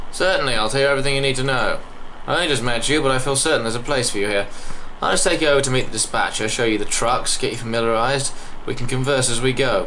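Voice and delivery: loud, welcoming English guide voice; English accent. Acted. Welcoming a new recruit to tour, English accent. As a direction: play an obliging English company man. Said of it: "I don't know why he's English".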